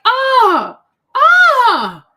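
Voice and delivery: loud, high delighted cry; excited shout. Real, not acted. Vlogger overwhelmed by old photos, loud delighted cry.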